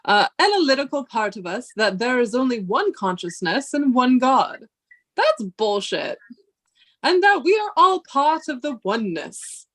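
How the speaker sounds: measured, solemn lecturing read; professor voice. Acted. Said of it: "do you like my professor, um, voice?".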